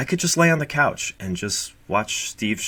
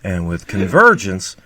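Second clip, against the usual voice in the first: Steve impression; 5 semitones higher, 5 dB louder than usual. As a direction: ham up a Southern YouTuber explaining convergence. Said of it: "that's my Steve".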